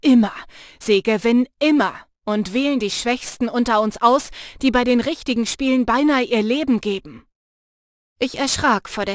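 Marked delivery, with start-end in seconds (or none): 0.0-7.3 loud, hard-edged insistence; harsh outburst. Acted. Jannis gripping Lena's shoulders, harsh and loud. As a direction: bite down on every word.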